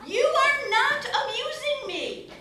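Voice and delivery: high-pitched acted indignation, a touch exasperated; mildly indignant. Farmer rebuffs the strange man.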